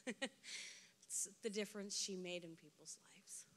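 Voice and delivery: half-laughing, half-whispered ending. Real, not acted. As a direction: let the words dissolve into a breathy laugh. Tearful laugh closing eulogy.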